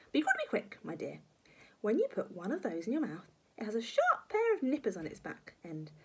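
lightly voiced batty old woman; granny voice leaping high on warnings; gleeful grandma. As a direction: instruct with ghoulish relish. Grandma instructing on earwigs.

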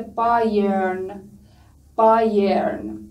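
بایرن slowly, with a drawn-out "ai"; "ai" sound demonstrated. Shown as a demonstration. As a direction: stretch the first glide of بایرن. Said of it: "صدای آی".

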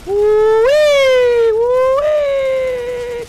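high, loud gleeful whoop; excited whoop. Real, not acted. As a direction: let out a giddy high cheer. Excited whoop during gameplay.

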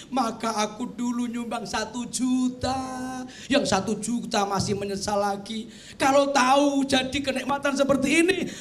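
mock weeping plea; mock lament. Dead donor regretting his small gift, mock lament. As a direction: wail half-jokingly to God. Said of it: "ya gelo".

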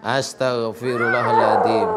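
slow recitation. Shown as a demonstration. Healer prompting Mbak Putri to repeat istighfar, slow recitation. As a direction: recite it slowly for someone to follow.

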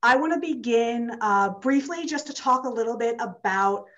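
slightly winded, catching breath; talking while still out of breath. Real, not acted. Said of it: "I'm also a little out of breath".

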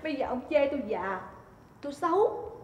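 quiet, sulky lament; wounded self-pity. Acted. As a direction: play the hurt wife softly. Wife wounded, complains she is old.

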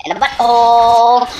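high, loud repeat; shouted punchline. Acted. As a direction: yell it out for the laugh. Repeated louder.

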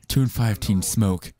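slow solemn warning; deadpan ad read, slow; mock PSA voice. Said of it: "Let's do a smoking ad".

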